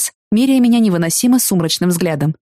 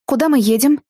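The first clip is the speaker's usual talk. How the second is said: tense; 6 semitones higher than usual. A narrator's reading. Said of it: "напряжённо поинтересовалась я".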